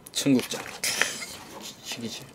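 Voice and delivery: ordinary talk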